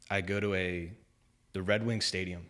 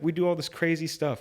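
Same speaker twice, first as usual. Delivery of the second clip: higher, louder, hammed-up preacher voice; imitating the preacher; 8 semitones higher, 5 dB louder than usual. Retelling the evangelist's stadium sermon, in a higher, louder mock preacher voice. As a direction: play the stadium preacher, big and showy.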